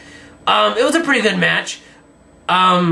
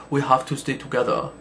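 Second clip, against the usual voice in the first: mock Asian accent; 4 semitones lower, 6 dB quieter than usual. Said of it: "That was like an Asian accent".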